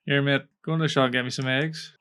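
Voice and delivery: put-on casual Belfast kid asking a favour; lightly put-on Belfast street accent. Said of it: "I can't do the accent".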